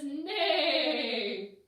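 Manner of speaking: whinny like a horse; horse neigh. Acted.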